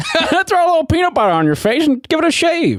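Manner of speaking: put-on, very high fatherly dad voice. Retelling how a parent taught shaving: imitating dad. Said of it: "Sorry about my impression of you, Dad".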